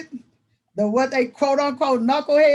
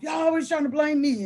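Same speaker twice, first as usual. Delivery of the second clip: mildly imitated student complaint, pitched higher; ranting student; 5 semitones higher than usual. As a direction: retell a boy going off about being blamed. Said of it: "he just goes off".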